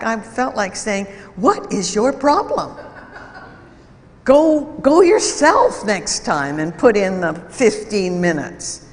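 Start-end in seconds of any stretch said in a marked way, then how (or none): 1.4-8.8 exasperated retort. Retold or imitated. What he felt like saying back.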